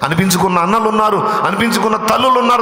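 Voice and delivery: high, loud preaching cry; preaching at full force. Acted. Preacher calls out to the congregation, climbing. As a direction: shout it out from the pulpit.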